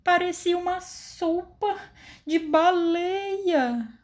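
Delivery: high, drawn-out amazed voice; wide-eyed astonishment; astonished. Shown as a demonstration. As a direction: gasp it out in surprise. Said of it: "eu falei espantada".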